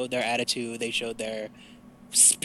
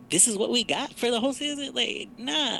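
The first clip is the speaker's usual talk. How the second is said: incredulous; 8 semitones higher than usual. Real, not acted. Ranting about female Rangers.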